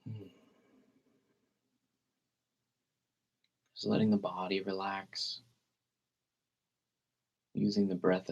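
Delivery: calm meditation guide with long, unhurried pauses; guided meditation. Real, not acted. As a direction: gently lead listeners into relaxed breathing, leaving space between phrases.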